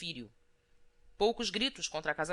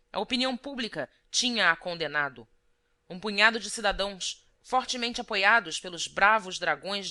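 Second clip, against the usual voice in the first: rousing proclamation. A narrator's reading. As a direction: declaim it like a town crier to the crowd. Barber's proclamation read to people.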